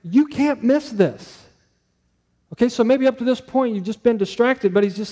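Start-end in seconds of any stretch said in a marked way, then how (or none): 0.0-1.4 higher, drawn-out, insistent emphasis; slow right down and press every word on them; attention-grabbing urgency. Retold or imitated. Preacher voicing a call for the congregation's attention, urgent. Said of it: "Their attention. It's like".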